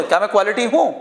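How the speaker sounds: "क्या मैं क्वालिटी हूँ?" in a spoken question tune. Shown as a demonstration. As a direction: ask "क्या मैं क्वालिटी हूँ?" as if speaking, not reading. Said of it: "बोलने की टोन होगी". ("क्या मैं क्वालिटी हूँ?" सवाल वाली टोन में)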